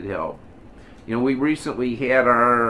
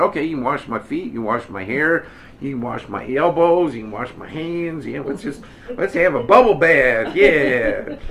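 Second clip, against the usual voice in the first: comic eager pleading that builds to a loud whoop; eager, over-the-top; 3 semitones higher, 5 dB louder than usual. Acted. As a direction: play an overexcited disciple, getting carried away, ending loud and laughing. Peter's eager reply comically acted out.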